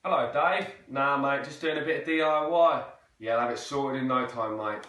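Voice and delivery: Cockney with dropped H's and T's; East London accent. Shown as a demonstration. Chatting to a mate about DIY, East London accent. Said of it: "on to the East London accent".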